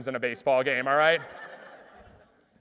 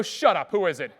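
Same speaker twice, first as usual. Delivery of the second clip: laughing disbelief; 8 dB louder than usual. Retold or imitated. Disbelief at surprise phone call.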